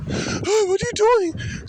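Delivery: very high, squealing mock woman's voice; playing victim. Mocking the woman playing victim, shrill squeal. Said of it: "play victim".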